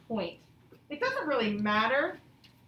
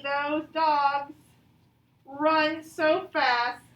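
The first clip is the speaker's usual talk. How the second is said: louder, slow emphatic excitement; excited; 3 semitones higher, 5 dB louder, much slower than usual. Shown as a demonstration. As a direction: stretch it out with wonder. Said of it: "Exclamation point".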